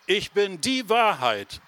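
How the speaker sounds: "die" stretched out and pitched high; slow, high declaration that lands hard on "die"; stress on "die". Shown as a demonstration. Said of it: "sondern die Wahrheit". (Betonung auf "die")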